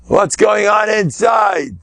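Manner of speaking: slow emphatic shout; loud challenge. Shown as a demonstration. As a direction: demand an answer from the crowd.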